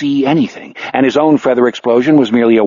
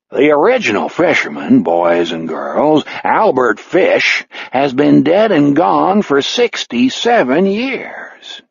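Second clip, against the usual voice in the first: charged-up avuncular radio host voice; big booming uncle-ish sports host; George Rathbun voice; 4 semitones higher, slower than usual. Acted. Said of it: "summons George Rathbun in all his avuncular glory".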